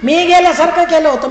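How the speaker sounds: acted gotcha; gleeful reveal. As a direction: call out the punchline as the returning beggar. Beggar reveals he only pretended.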